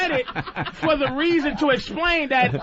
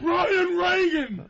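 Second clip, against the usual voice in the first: laughing shout; 5 semitones higher, much slower than usual. Real, not acted. Calling out to Brian, laughing.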